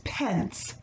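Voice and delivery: pence said slowly and clearly; pence, spelled out for children; teaching a new word. Shown as a demonstration. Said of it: "and pence means coins".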